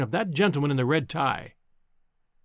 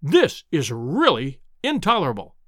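mild furious cry; 2 semitones lower than usual. Acted. Lecturer turns on the heckling professor, mildly furious. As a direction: snap out the complaint, understated anger. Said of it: "he cried".

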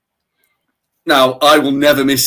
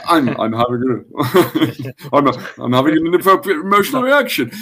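breezy, laughing self-talk, stumbling then quick; light and friendly, chuckling through it; normal charming voice; 2 semitones higher than usual. Shown as a demonstration. Showing cohost how he really says it, laughing and charming. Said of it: "I use my normal, charming voice".

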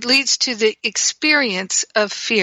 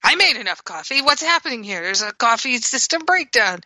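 mock attitude. Shown as a demonstration. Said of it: "that kind of attitude".

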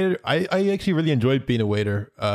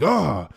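high rising-falling "oh!"; imitated startled cry; 5 semitones higher than usual. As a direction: mimic the man's startled cry. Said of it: "he's like".

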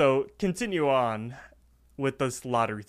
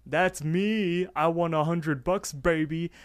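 high, loud whoop into raised-pitch celebration; excited; 7 semitones higher, 5 dB louder, much slower than usual. Retold or imitated. Raffle winner claiming his prize, excited. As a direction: act out a jubilant raffle winner. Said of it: "Muscle Man is all excited".

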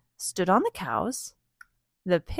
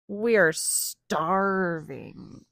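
pigs complaining; 2 semitones lower, much slower than usual. Acted. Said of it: "oinked the pigs".

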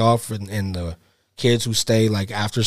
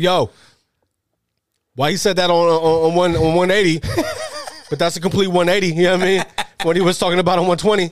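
Shiny Bug; 7 semitones higher than usual. Acted. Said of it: "Shiny Bug's gonna be like".

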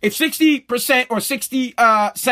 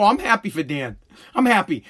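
deadpan grumble; 4 semitones lower than usual. Retold or imitated. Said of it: "I go".

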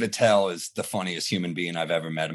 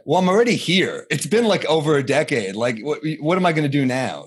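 exasperated; 4 semitones higher than usual. Retold or imitated. Retold comeback to doubting mother.

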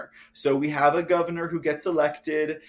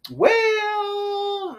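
surprised hesitation. Retold or imitated. Retelling own first reaction.

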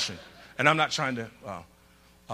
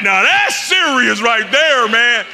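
mock awed shout; 6 dB louder, slower than usual. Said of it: "I'm like".

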